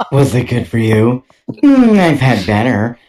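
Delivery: slow, dry mock pillow talk; a lazy, unimpressed drawl; mock bedroom chat. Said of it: "acting bedroom exchange".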